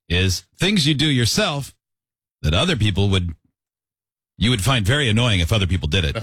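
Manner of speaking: "things" drawn out, each phrase slowed down and spaced with pauses; slow and deliberate. Shown as a demonstration. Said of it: "It's harder for me to do it slow".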